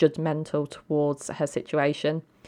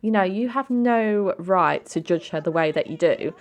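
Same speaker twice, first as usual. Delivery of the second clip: raised, higher pitched protest at her sister; indignant defending; 4 semitones higher, 4 dB louder than usual. Acted. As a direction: scold her sister for judging, pitch up and push. Sister defends girlfriend in argument.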